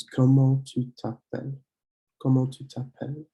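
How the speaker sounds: "comment tu t'appelles" with "tu t'appelles" run together as one; linked French words. Shown as a demonstration. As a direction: model "comment tu t'appelles", linking the T smoothly. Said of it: "you link it together".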